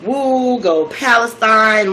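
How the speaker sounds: slow, drawn-out mock cheer; ecstatic cheer. The speaker sees Yusuf in first place, ecstatic. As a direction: imitate an elated supporter, lightly hammed up.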